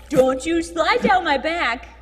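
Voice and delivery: squealing laughter while tickled; being tickled. Real, not acted. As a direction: laugh loud through tickles. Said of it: "Stop tickling me".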